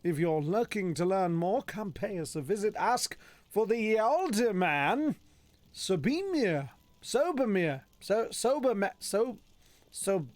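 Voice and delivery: swooping, theatrical proclamation; notice read in character. Acted. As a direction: read it out grandly, drawing out the key words.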